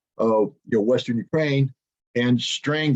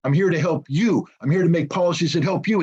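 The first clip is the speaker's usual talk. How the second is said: imagined prime minister's pledge; 4 semitones higher than usual. Retold or imitated.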